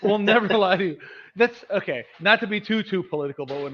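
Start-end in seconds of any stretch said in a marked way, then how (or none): 0.0-1.0 higher, laugh breaking through; mock reassurance through a laugh; laughing mock promise. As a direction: promise it while cracking up. Mocking the leaders' promise, laughing.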